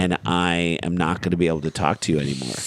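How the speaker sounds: real, subdued emotion while retelling; getting emotional. Real, not acted. Father retelling his son's fear of losing him, getting emotional. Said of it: "I'm gonna get emotional just talking about this".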